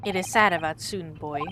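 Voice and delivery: put-on loud, blunt Russian-accented crewman; proud Russian sailor introducing himself. Crewman Biff correcting the lawyers, loud Russian accent.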